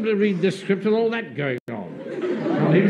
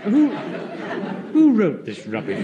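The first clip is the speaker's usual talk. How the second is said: indignant outburst; 4 dB louder than usual. Real, not acted. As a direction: bark it out in outrage. Captain outraged at script.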